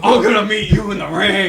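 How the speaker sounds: loud wrestling trash talk; wrestler shout. Pretend. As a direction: growl a challenge at ringside. Wrestling promo banter.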